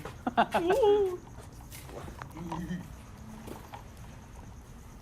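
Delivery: neighing snorting horse. Pretend. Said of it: "do your horse impression".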